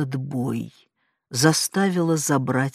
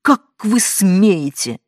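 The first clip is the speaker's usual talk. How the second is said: outraged shout; 3 semitones higher, 6 dB louder, slower than usual. A narrator's reading. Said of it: "выкрикнула я".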